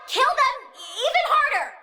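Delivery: gleeful cackling order to kill; laughing shout. Acted. Plant lady urging troops with a laughing shout. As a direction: laugh while barking the order.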